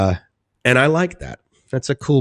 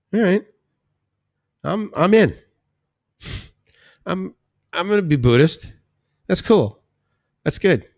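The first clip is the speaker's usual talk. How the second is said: eager mock reply; 9 semitones higher than usual. His own excited reaction quoted.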